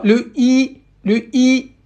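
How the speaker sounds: "i" said with the jaw stretched wide; demonstrated i. Shown as a demonstration. Teacher showing students how "i" is said, jaw stretched wide. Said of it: "Si vous cassez pas votre mâchoire, vous pouvez pas prononcer le i".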